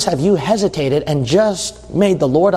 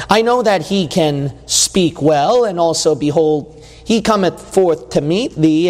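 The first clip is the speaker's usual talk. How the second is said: scripture reading. Acted. Pastor reads Exodus to the congregation, measured. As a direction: read the verses out with weight.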